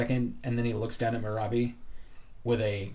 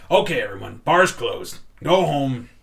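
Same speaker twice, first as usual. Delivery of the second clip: louder, calling to the room; shout; 3 semitones higher, 10 dB louder than usual. Acted. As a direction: bellow for everyone to clear out. Bouncer clearing the bar.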